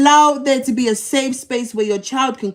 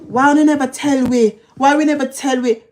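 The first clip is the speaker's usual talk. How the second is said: mocking family elders; 2 semitones higher, 3 dB louder than usual. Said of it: "You wanna hear them?".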